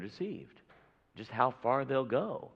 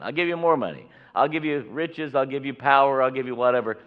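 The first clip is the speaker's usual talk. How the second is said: king's bribe; 4 semitones higher, 9 dB louder than usual. Acted. King bribing Balaam, acted.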